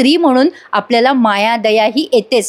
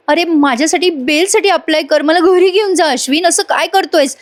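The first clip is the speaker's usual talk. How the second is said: higher, pressing heroine voice; Priya insistent; 5 semitones higher than usual. Acted. Priya begging Ashwin to apply for bail, high and insistent. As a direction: demand he take her home. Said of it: "Priya म्हणते".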